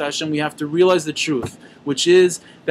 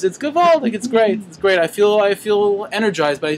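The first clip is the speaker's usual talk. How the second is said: higher-pitched acted delight; enthusiastic retelling; 4 semitones higher than usual. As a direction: play a chassid gushing about his rebbe. Acting out a delighted chassid.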